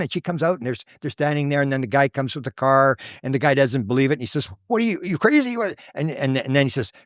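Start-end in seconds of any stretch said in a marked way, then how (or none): 4.7-5.8 high incredulous quote; acted scoffing question; retold disbelief. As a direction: imitate a man who won't believe it. Retold disbelieving man from car.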